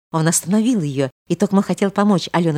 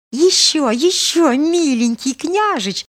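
put-on high girlish voice, pressing for more; insistent girl; 11 semitones higher, 4 dB louder, slower than usual. A narrator's reading. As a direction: coax him on, drawing out the last word. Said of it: "настаивала Алёнушка". (настойчивая просьба девушки)

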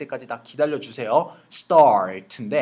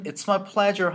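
cringey overdone; 7 semitones higher, much slower than usual. Shown as a demonstration. Teacher showing how the overdone version makes you cringe. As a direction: overdo it until it sounds cheesy. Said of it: "손발이 약간 좀 오그라들".

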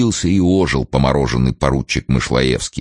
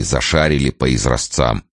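ordinary delivery

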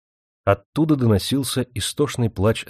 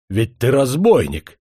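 гневный выкрик; 4 semitones higher, 5 dB louder, slower than usual. Acted. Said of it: "побагровел генерал".

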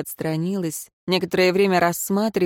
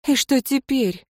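bitter question; 7 semitones higher than usual. A narrator's reading. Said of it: "горько спросила Леари".

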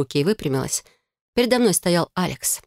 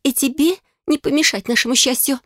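high, heated, defensive; hurt bride fiercely defending her love; upset young sister; 7 semitones higher than usual. A narrator's reading. Bride defending her fiance to her sister, high heated voice.

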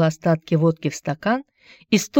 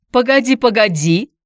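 hurriedly; 6 semitones higher, 4 dB louder than usual. A narrator's reading. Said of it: "торопливо заговорила она".

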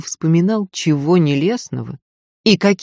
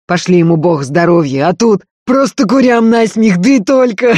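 laughing through pain; 4 semitones higher, 7 dB louder than usual. Acted. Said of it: "расхохотался, морщась от боли".

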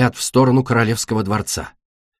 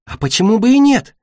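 high, offhand lilt; casual remark; 11 semitones higher, 4 dB louder than usual. A narrator's reading. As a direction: toss it out lightly, pitched high. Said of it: "небрежно заметила радужная". (небрежно, высоким голосом)

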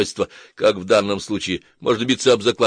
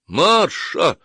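high exclamation of a name; startled, higher-pitched outcry; exclaiming; 8 semitones higher, 3 dB louder than usual. A narrator's reading. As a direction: exclaim it sharply, pitch jumping up. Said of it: "воскликнул Блайстон".

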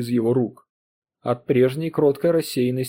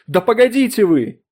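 much higher, louder cry; exclaimed; 9 semitones higher, 7 dB louder than usual. Acted. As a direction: cut both men off. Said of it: "воскликнула миссис Поттерли". (громкое высокое восклицание)

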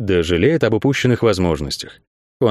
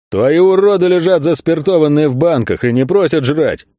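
loud, high, seething retort; high-pitched outburst of rising anger; angry bark; 5 semitones higher, 4 dB louder than usual. A narrator's reading. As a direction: bark it out, boiling over. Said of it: "рявкнул Кин, вновь закипая".

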